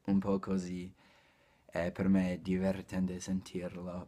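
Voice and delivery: normal talking voice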